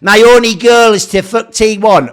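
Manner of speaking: loud sneering mock of the agent; mocking quote. Streamer mocking the agent's stated goal, sneering loud.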